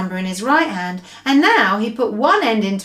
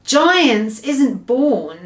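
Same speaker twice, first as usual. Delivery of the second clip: very slow, deliberate giant; a giant explaining patiently; 3 semitones higher, 3 dB louder, much slower than usual. Acted. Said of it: "the B F G answered".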